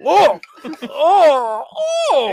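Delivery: groaning at a sour mouthful; eating bad garlic. Real, not acted. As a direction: react to awful garlic in your mouth. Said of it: "Oh, it's so sour".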